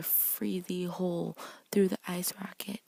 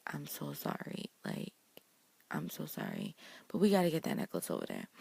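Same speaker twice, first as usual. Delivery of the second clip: compassionate apology; 3 semitones lower than usual. Retold or imitated. Emma apologizing to Elsa before taking the necklace, gently. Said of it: "she's trying to be compassionate".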